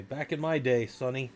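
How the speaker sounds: lightly voiced old geezer; a hint of a crotchety grandpa; old man. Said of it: "I'm like that old guy".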